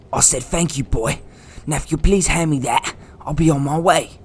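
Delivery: a posh man demanding his things back; impatient gentleman. Acted. The man voiced.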